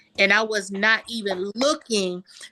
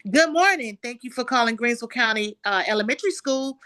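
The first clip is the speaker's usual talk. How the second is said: higher, bright professional phone greeting, quicker pace; phone receptionist voice; 4 semitones higher than usual. Retold or imitated. Showing the trained school-phone greeting, higher and professional. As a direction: answer like the school front desk. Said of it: "And I said".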